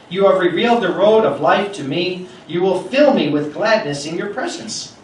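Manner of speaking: preacher reading Acts aloud to his flock, proclaiming; scripture reading. Acted. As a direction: proclaim the passage to the congregation. Reads the psalm quote aloud.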